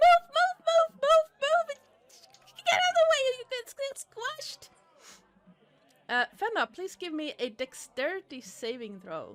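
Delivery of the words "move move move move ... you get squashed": small voice, much higher and louder. Game master narrates players hearing shouting in horror and delight, small voice. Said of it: "you hear a small voice going".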